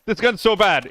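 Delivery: high, loud frustrated cry; panicking gamer. Real, not acted. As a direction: yell it in panic. Gun failing mid-fight.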